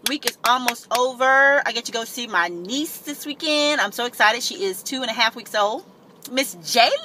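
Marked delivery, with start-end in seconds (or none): 1.6-6.9 talking while chewing gum. Real, not acted. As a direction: gum in the mouth as she talks. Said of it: "Excuse me, chewing of the gum".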